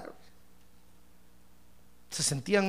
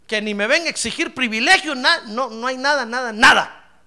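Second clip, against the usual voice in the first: Noemí scolding, rising to a louder burst on nada; exasperated Noemí; 3 dB louder than usual. Acted. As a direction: push her away, annoyed. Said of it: "Noemí cuando la vio dijo". (Noemí exasperada, cada vez más fuerte)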